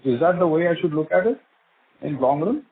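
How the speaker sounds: muffled, as if through a hand; words smothered behind a hand. Real, not acted. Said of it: "your voice is a bit muffled".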